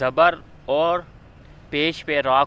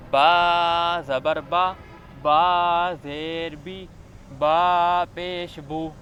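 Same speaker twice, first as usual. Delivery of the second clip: Qaida recitation. Shown as a demonstration. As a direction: spell each letter out clearly for a child learning to read. Teacher recites Qaida syllable drill.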